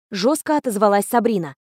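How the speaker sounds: plain reading voice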